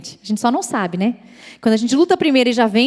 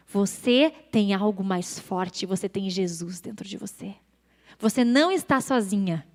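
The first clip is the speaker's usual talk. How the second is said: slower, gently reassuring father; tender reassurance; 4 semitones lower, 4 dB quieter than usual. Retold or imitated. Father consoles his frightened daughter, tender and reassuring. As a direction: reassure softly, with weight on each phrase. Pai consola a filha ao telefone.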